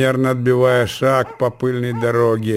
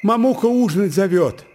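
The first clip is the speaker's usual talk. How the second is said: little brother calling. A narrator's reading. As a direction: call out like a small boy, stretching the names. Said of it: "прокричал, подбегая к казачкам, маленький брат Марьяны".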